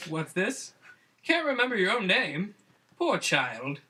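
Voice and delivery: put-on pitying, light Jamaican accent; Lilith pitying Jamaican. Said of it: "Lilith said pityingly".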